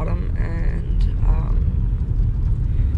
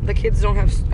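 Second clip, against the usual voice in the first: on a bumpy road; 2 semitones higher, 4 dB louder than usual. Real, not acted. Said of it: "it's so bumpy".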